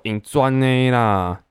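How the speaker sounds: mock-impatient dad, very slow; a dad who has had enough, drawn out. Dad snapping at son fumbling the headlights, mock impatient. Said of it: "我爸就很不耐烦的说".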